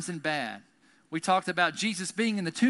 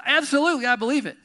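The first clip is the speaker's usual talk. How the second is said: higher, louder burst of conviction; emphatic affirmation; 8 semitones higher, 7 dB louder, faster than usual. Acted. Martha answering whether she believes, emphatic affirmation. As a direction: declare it with total certainty.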